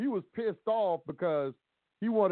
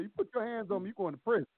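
firm warning; 5 semitones higher, 5 dB quieter, faster than usual. Shown as a demonstration. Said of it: "You tell them just like that".

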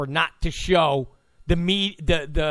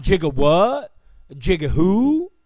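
impression of a rapper; 3 dB louder, slower than usual. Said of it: "a rapper and a singer talking about".

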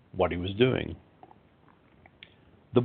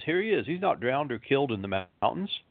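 fading shout; 4 semitones higher, 3 dB quieter than usual. Acted. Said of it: "he ran toward him shouting".

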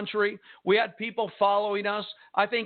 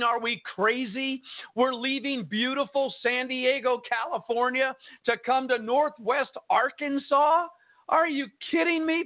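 retold disbelief, climbing higher to the end; high-pitched, mock-incredulous questioning; 4 semitones higher than usual. Pastor doubting the move to Northwest Arkansas, retold incredulity.

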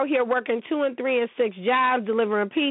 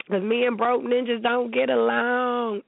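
sassy aside. Pretend.

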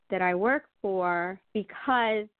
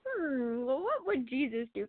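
non-threatening; 4 semitones higher than usual. Retold or imitated. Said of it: "in a non-threatening way".

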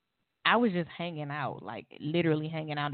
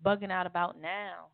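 raised, mock bewildered innocence; confused protest; 3 semitones higher than usual. To her boyfriend on the phone, bewildered and higher. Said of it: "I'm like".

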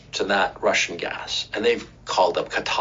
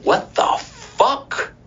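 shocked Russians; 10 semitones higher, much slower than usual. Retold or imitated. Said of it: "they were like".

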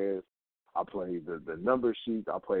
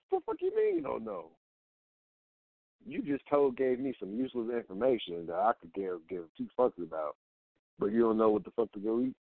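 exasperated retort. Retold or imitated. Fed up with girlfriend who won't pick food, retelling exasperated. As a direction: act out snapping at her in disbelief.

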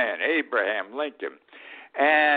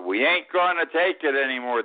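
a bit louder, punchier crowd yell; mock protest yell; 4 semitones higher, 3 dB louder than usual. Host imitating people yelling from windows, lightly hammed-up yell. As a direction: push the chant out like people shouting from windows. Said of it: "they were yelling out of their windows".

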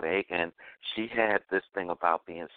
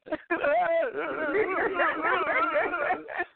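laughing until nearly crying; 4 dB louder than usual. Real, not acted. Laughs after retelling awkward moment.

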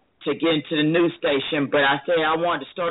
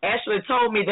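fighting back real tears while telling it; tearful; 4 semitones higher than usual. Real, not acted. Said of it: "Bless you".

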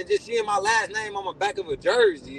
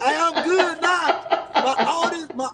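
laughing; 6 semitones higher than usual. Real, not acted. Laughing after the joke.

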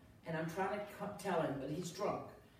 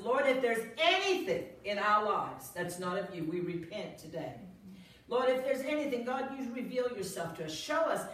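unquiet public prayer; 2 semitones higher, 4 dB louder than usual. Retold or imitated. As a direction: pray it out loud for the whole bar, rising in urgency. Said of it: "I didn't do it quietly".

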